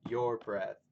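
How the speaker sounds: "your breath" as an iamb, weight on "breath"; stress on last syllable. Shown as a demonstration. Teacher showing the poem's meter, stress on "breath". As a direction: scan "your breath" as one foot, beat on "breath". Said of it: "stresses on the last syllable".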